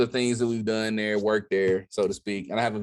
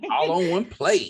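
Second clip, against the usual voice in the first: higher, louder, hammed-up Southern country twang; mock country voice; 8 semitones higher, 4 dB louder than usual. Repeats own line in twang.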